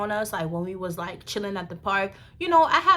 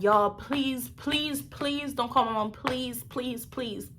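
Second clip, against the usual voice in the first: higher, softening mock-tearful begging; crying plea; 3 semitones higher, 5 dB quieter, slower than usual. Teen begging cops not to call mom, mock crying. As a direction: beg repeatedly, fading as you go. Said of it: "Y'all, I was crying".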